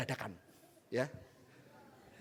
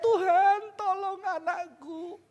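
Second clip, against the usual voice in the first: high, slow acted plea fading off; Hagar; 7 semitones higher, much slower than usual. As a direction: cry out for your child, drawn out. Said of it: "Hagar teriak". (seruan meratap bernada tinggi)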